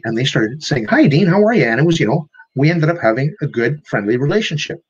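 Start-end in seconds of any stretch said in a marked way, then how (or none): 0.9-1.6 higher and louder cheerful hi; a sunny hello, glad to see him; happy greeting. Retold or imitated. Reformed grump cheerfully greets Dean each morning. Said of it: "They started showing up happy".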